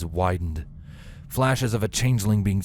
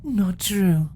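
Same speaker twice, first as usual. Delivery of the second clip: calm; 11 semitones higher than usual. Acted. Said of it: "calmly replied".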